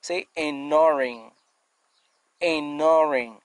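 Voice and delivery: ignoring said slowly, stress on -nor-, ending in a nasal -ing; careful pronunciation. Shown as a demonstration. Teacher insisting on pronunciation to students, careful. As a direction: enunciate ignoring with care. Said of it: "La prononciation, s'il vous plaît, c'est très important".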